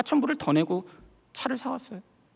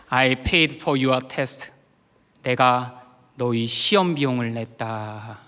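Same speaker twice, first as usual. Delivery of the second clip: low, very slow pronouncement; God; 8 semitones lower, much slower than usual. Retold or imitated. God answering the pastor's prayer, low solemn voice. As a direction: speak it low, deliberate and weighty. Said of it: "영어로 하나님의 음성을 들었습니다".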